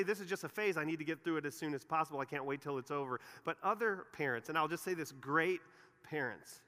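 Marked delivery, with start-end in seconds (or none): 0.0-3.2 quick, hurried brush-off of a phase; impatient parent. Retold or imitated. Pastor voicing impatient parents eager to get through it, hurried. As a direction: rush through it like it's a chore to endure. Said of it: "some parents say".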